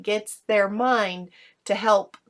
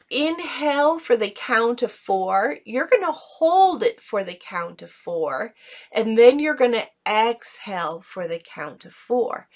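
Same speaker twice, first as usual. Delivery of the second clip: guided breathing instructions. Shown as a demonstration. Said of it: "practice that together".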